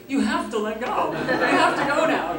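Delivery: loud, high, drawn-out plea with laughter; mock desperate command. Stuntwoman ordering her own hands to let go, high mock-desperate yell. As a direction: order them slowly and loudly, as if desperate.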